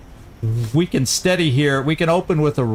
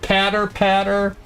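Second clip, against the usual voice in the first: high squeaky voice; 8 semitones higher than usual. Acted. Excited high pitch while listening.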